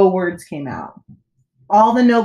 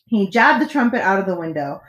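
plain reading voice

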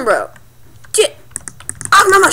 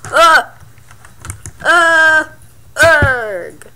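effort grunts; 2 semitones higher, 4 dB louder, much slower than usual. Real, not acted. Effort noises during play.

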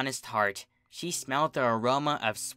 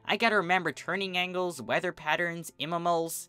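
Rainbow's brash tomboy voice; 6 semitones higher than usual. Acted.

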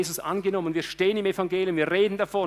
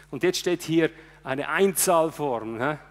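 fervent sermon voice, rising and pushing; preaching at full force; 3 semitones higher, 4 dB louder than usual. Acted. Preacher driving home his sermon, fervent preaching. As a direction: preach it to the congregation with fire.

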